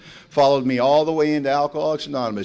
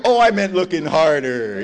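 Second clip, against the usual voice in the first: quick innocent switch; 3 semitones higher, 7 dB louder, slower than usual. Retold or imitated. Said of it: "I just switched right into that".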